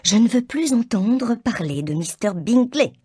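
a mother in a huff; petulant declaration. A narrator's reading. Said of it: "déclara Mrs Bennet".

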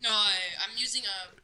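echoey headset mic; cave echo. Real, not acted. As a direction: voice boomy like in a cave. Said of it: "it just sounds like you're in a cave".

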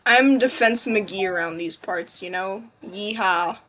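put-on low, easy southern cowboy accent. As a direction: slip into a playful southern twang. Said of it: "Why did I turn southern?".

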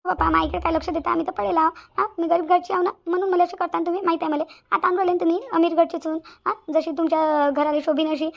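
rising, taunting reproach to her man; रागाने तक्रार. Acted. भांडणात तक्रार करणारी बायको. (रागाने, टोमणे मारत तक्रार)

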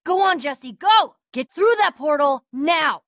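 high, loud pleading order; frantic yell to go; urgent shout. Acted. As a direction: push him through the portal. Urging escape through portal.

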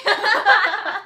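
high, loud theatrical oh my; playful exclamation. Pretend. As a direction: ham up the movie line. Echoes lions, tigers, bears.

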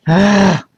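big weary sigh; exasperated sigh. Real, not acted. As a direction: let out a sigh over the hassle. Relief after the hassle.

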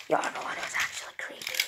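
whispered robot voice. Acted. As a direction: whisper it back like a creepy robot.

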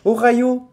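"Ohio" said "o-ra-yo" with a throaty R; Ohio with French R. Shown as a demonstration. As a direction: roll through "Ohio" as "o-ra-yo". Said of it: "ça sonne bien pour le japonais". ("Ohio" avec un R)

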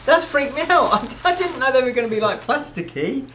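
high, quick delighted gushing; real excited surprise; excited and amazed. Real, not acted. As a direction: squeal over the strange gift. Opening surprise present.

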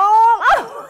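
high burst of laughter. Real, not acted. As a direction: laugh out loud at the joke. Teller laughs at skunk oil.

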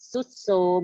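"ทรุดโทรม" with each ทร sounded as s; false cluster. Shown as a demonstration. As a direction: say "ทรุดโทรม" as sut-som, no r. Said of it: "ออกเสียงเป็นซอโซ่". (ออกเสียง "ทรุดโทรม" เป็น ซุดโซม)

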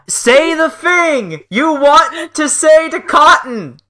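slow, careful repeat. Real, not acted. Host repeating the cue for lagging guest, exaggeratedly slow. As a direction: spell it out slowly word by word. Repeating slowly after "really fast.

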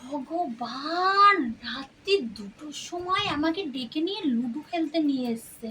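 mock-despair, half crying; exasperated wail. Wife despairs over ludo at 2am.

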